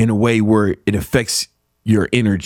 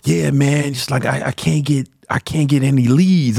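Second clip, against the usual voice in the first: imitated whiny student complaint; mock defeated. Host imitating a student who wanted pity, mock defeated. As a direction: gripe it like you've given up. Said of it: "sounding like a hoe who just gave up".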